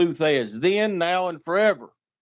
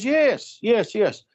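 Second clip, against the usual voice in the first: eager yes; 6 semitones higher, much slower than usual. Retold or imitated. Lou eagerly confirming.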